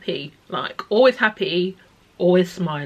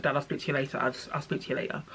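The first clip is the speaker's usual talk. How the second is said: tearful retold goodbye; 3 semitones lower, 8 dB quieter, much faster than usual. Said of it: "I burst into tears on the phone".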